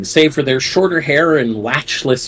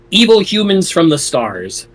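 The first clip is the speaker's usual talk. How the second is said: put-on old sci-fi announcer; 4 semitones higher, slower than usual. Dramatic read of rulebook text.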